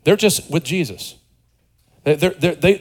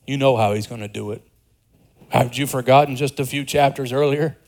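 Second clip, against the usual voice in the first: exasperated disciples; 4 semitones lower, 4 dB quieter than usual. Retold or imitated. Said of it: "a negative perspective on the disciples".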